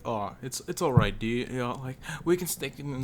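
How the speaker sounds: lightly imitated fake-nice guy; a hint of phony niceness; super nice guy. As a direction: play it easygoing and over-friendly, mildly mocking. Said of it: "like, this super nice guy".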